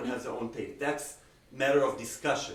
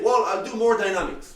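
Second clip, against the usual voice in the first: imitating student; 6 semitones higher, 10 dB louder, faster than usual. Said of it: "you can easily say".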